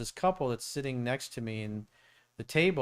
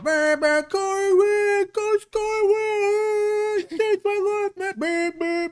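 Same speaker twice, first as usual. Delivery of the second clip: much higher, very loud hollered fan yell; yelling from a car; 10 dB louder, much slower than usual. Retold or imitated. Passing driver yelling at Corey from the road, loud high holler. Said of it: "they'll yell something".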